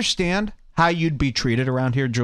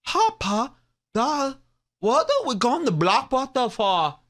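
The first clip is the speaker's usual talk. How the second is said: put-on high, mush-mouthed toddler voice; exaggerated baby-talk impression; mocked kid talk; 8 semitones higher than usual. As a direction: imitate a babbling little kid, pitched way up. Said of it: "If your kid talks like this".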